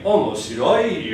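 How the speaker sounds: Omoshiroi said slowly, with the pitch rising again inside the word; mock mistaken Omoshiroi; wrong pitch rise. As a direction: imitate a learner pushing Omoshiroi back up. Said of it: "People will say things".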